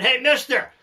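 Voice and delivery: high, slow call across a field; yelling across the field. Retold or imitated. Rancher yelling to the inspector chased by the bull, high and slow. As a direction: shout the advice out to him. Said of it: "So I yelled out at him".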